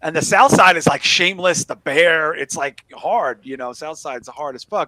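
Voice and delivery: a broad, loud Chicago accent put on. Host telling a story about the brother, in a put-on Chicago accent. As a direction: lay the Chicago accent on thick. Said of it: "I'm gonna stop the accent".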